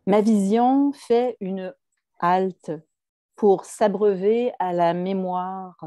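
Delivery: slow, measured poetry recital voice; poem reading. Acted. Poet reads a colleague's poem to the audience, measured recital. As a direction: read the verse out slowly and deliberately.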